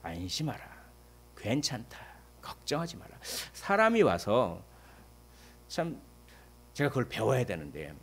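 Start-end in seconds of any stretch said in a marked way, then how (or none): 0.0-3.2 reassuring. Acted. Comforting words of Jesus.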